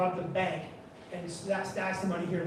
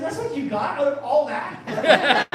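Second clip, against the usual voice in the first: high, loud, drawn-out disbelief; exasperated retort, louder and higher; incredulous; 5 semitones higher, 7 dB louder, slower than usual. Retold or imitated. Caller to woman who misunderstood his explanation, incredulous.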